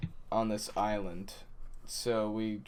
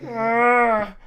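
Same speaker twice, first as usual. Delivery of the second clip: high startled yelp; a sudden frightened "ah"; 12 semitones higher, 13 dB louder than usual. Retold or imitated. Kid startled by stranger.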